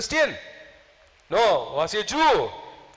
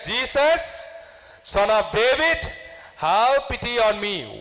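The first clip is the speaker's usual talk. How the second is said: raised, pleading cry with Jesus pitched up; shouting more; 4 semitones higher than usual. Retold or imitated. Blind Bartimaeus shouts again to Jesus, raised plea. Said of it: "He shouted little more".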